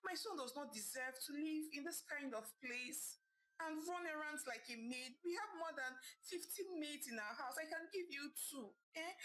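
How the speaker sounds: high, crying plea rising to tears; sad pleading. Acted. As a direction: beg her to stop, breaking into sobs. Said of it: "pleaded with her sadly".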